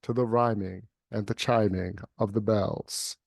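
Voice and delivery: rhythmic, chanting reading with swelling repeated bells; dramatic poem recitation. Acted. Reading The Bells aloud to a friend, dramatic poem recitation. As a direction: let the bells ring and toll in the rhythm.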